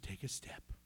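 low, soft whispered instruction; whispered command. Retold or imitated. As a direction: breathe it as God's gentle command. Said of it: "He said".

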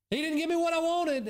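high, whiny mock complaint; petulant grumble, pitched high; sulky complaint. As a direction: mimic a sulking believer who didn't get his wish. Quoting a complaining believer.

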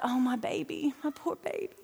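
soft, cooing motherly sympathy; tender pity. Retold or imitated. Mother recalls pitying her two-year-old who threw up, soft tender pity. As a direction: softly pity a sick little one.

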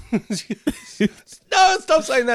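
high, loud mock plea; protesting daughter. Daughter telling him to stop, high loud mock protest. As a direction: imitate an embarrassed daughter cutting him off. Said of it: "The daughter's like".

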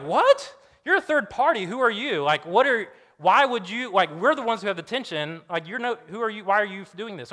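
high, loud acted protest; mock affronted outburst; indignant disbelief. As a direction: challenge the meddler, voice up. Imagined offended party protesting absolution.

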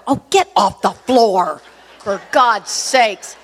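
slow, exasperated wifely order; exasperated scolding. Retold or imitated. Wife to husband kneeling in the airport, exasperated. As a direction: drag it out, fed up.

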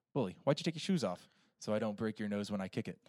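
quick, understated movie quote; film-line delivery. Acted. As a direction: toss the line off fast, like the film. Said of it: "exactly how those lines are delivered".

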